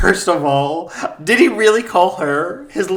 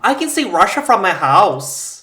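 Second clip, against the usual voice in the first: mock politician impression, slightly raised; Sarah Palin; 3 semitones higher, 4 dB louder than usual. Cohost showing off a known phrase, politician impression. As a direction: do the politician's folksy catchphrase. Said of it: "only do S-, Sarah Palin with certain phrases".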